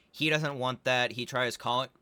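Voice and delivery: talking through hiccups; a hiccup breaks the words. Real, not acted. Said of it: "my hiccups".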